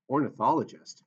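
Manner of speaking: surprised, questioning rise; puzzled question. Acted. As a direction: ask it in disbelief. Chris puzzled by his title.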